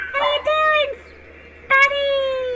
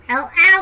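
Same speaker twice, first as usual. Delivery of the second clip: sharp ouch; 6 semitones lower, 5 dB louder than usual. Pretend. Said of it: "me toe hurt".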